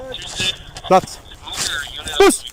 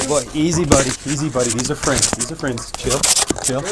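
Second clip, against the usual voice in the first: soothing; 4 semitones lower, 5 dB quieter than usual. Real, not acted. Calming the dog.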